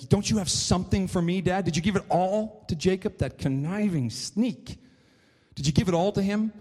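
lightly acted plea to a father; begging. Esau begs his father for a blessing, mildly pleading. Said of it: "Esau begs his father".

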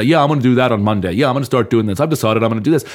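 offhand, mildly lackadaisical promise; lightly acted breezy commitment. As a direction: rattle it off like a casual, empty promise. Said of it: "so lackadaisical with the way that you say".

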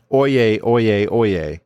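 ringing court crier call; royal herald. Retold or imitated. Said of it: "with his shouting declaration".

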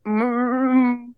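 barely responsive groan; mumbling sound. Retold or imitated. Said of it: "like, mumbling sounds".

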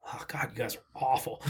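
whispered through a laugh. Retold or imitated. Telling a friend's bandmate his music is bad, in a laughing whisper. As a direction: whisper the insult while laughing. Quoting his own put-down.

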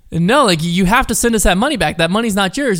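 mildly exasperated impression of a caller; imitated flustered scammer. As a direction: plead as a rattled scammer, retold. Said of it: "getting, like, so flustered".

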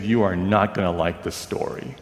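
low, heavy warning with a fallen face; a grave, sorry tone; a touch of dread as she breaks the news; gloomy warning. Retold or imitated. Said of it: "And her face fell".

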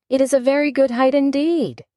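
indignant high retort; angry. Acted. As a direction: snap it back indignantly. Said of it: "said the caterpillar angrily".

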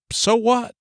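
high-pitched, shrugging retort; dismissive. Acted. Preacher voicing a shameless society's answer, dismissive and high. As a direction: toss it off as a mock brush-off.

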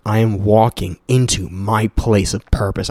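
savoring the app's affirmation, slow and deliberate. Shown as a demonstration. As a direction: read "I am walking into my place of purpose" slowly and deliberately, like an affirmation. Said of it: "I fucking love that".

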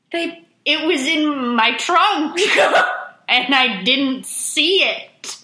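slow, giggling excuse; nervous laughing excuse. Retold or imitated. Teen telling the cop she missed the spare, laughing nervously. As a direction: laugh through the lie, slowly.

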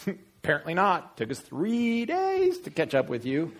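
high, indignant parental retort; exasperated mother. Acted. Mother answering her twelve-year-old son, high exasperated retort. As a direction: throw the question back, exasperated.

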